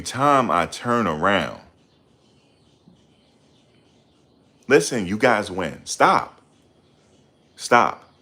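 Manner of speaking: final fed-up cry; exasperated plea. Real, not acted. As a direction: snap out the stops, fed up. Begging viewers to stop.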